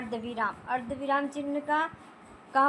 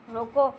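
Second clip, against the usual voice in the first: रोको set apart as its own command; pause after रोको; 2 semitones lower, 4 dB louder than usual. Shown as a demonstration. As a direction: stop right after रोको, leaving a gap. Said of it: "विराम चिन्ह लगाया".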